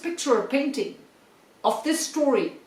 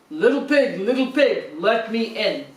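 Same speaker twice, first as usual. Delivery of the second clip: louder growly wolf demanding; wolf calling again; 3 dB louder than usual. A narrator's reading. Wolf at the brick house telling the pig to let him in, loud. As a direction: knock and call like a hungry wolf.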